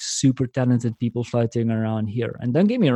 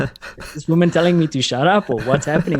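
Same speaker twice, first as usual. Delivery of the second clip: confused; 4 semitones higher, 3 dB louder than usual. Retold or imitated. Speaker voiced, laughing, confused.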